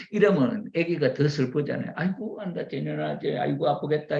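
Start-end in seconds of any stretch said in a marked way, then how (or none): 2.0-4.2 higher-pitched parental sympathy; comforting. Acted. Parent to a child who fell, comforting. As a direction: fuss gently over a small hurt. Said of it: "이러면서 위로해주면은".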